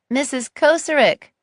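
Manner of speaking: called out across the fair; calling out. Acted. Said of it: "I called out".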